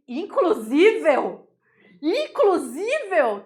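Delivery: teasing inclusível; mock wrong inclusive. Shown as a demonstration.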